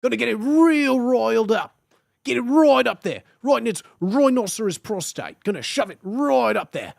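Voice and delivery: high, loud mock-Australian; hammed-up Australian wildlife host getting worked up; Australian accent. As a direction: go big and broad Australian. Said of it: "How to be Australian".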